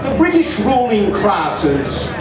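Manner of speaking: put-on slow, lightly English-accented friend. British friend at the harbour in mild English accent. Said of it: "in his quite genuine English accent".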